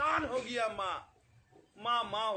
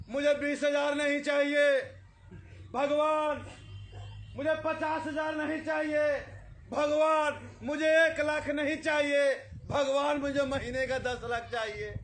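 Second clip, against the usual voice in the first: greedy pleading; 3 semitones higher, 3 dB louder than usual. Retold or imitated. Greedy man bargaining with God.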